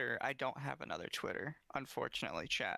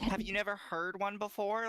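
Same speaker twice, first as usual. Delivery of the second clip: incredulous; 7 semitones higher than usual. Acted. Acts out disbelief about accents.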